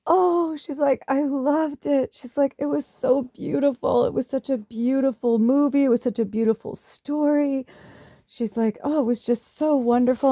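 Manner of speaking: put-on high, gushing German-accented mother-in-law; mother-in-law raving about a film, German accent. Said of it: "she had a very thick German accent".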